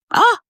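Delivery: sudden cry of "ah" while fighting tears; emotional outburst breaking through; tearful gasp. Real, not acted. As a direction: let out a real, choked-up "ah". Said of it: "trying not to cry".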